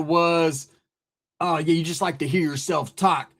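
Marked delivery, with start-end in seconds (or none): 1.4-3.3 low, muted mock of a rival; lightly put-on imitation of his complaint; mocking the commenter. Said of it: "That's how he sounds".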